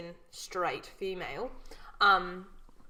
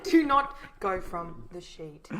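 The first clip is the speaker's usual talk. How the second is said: laughing; 5 dB louder, slower than usual. Real, not acted. Joking about sticking to sheet.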